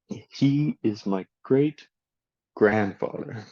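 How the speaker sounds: slow model sentence, stress on "great" before "grandfather"; compound stress. Shown as a demonstration. Teacher models a compound for learners, stress on "great" before "grandfather". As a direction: stretch "great", let "grandfather" drop. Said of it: "you stress the first word".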